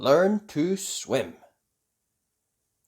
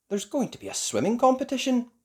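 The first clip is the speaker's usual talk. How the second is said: father's announcement; 9 semitones higher, faster than usual. A narrator's reading. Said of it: "he said".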